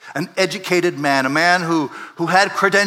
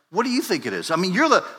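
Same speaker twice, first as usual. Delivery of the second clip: humble deferring; 3 semitones higher, faster than usual. Retold or imitated. Jesus humbly defers to the expert in the law, deferential. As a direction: hand the question over humbly. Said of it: "humbly defers to the man".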